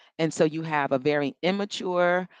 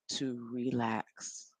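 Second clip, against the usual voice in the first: much softer, slow, relaxed "to relax"; 5 semitones lower, 11 dB quieter, much slower than usual. Shown as a demonstration. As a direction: let "to relax" melt out slowly and softly. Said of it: "signals to the brain".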